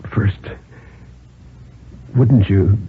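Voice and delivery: put-on slow, humble old man's plea; feeble, humble plea. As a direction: beg meekly, slowly. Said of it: "very feebly, very slowly, very humbly".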